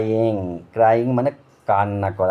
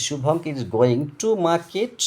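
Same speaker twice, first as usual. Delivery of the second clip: slow example; 4 semitones higher, much slower than usual. Shown as a demonstration. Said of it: "suppose আমি যদি বলি".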